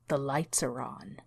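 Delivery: a calm, eerie reminder to the terrified mother; shushing. A narrator's reading. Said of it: "shushed her".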